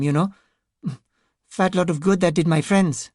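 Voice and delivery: high, timid, halting voice; a frightened man missing his friends; nervous grieving man. Acted. Ranajay voice again.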